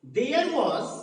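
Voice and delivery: slow, deliberate reading aloud; measured classroom read-aloud, unhurried; slow dictation. Shown as a demonstration. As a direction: read it out slowly for learners. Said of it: "मैं धीरे धीरे बोल रहा हूं".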